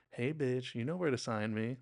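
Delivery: light, friendly teasing; playful. Shown as a demonstration. Fan asking for an autograph, playful. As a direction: say the insult as affectionate banter. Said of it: "No, it's like".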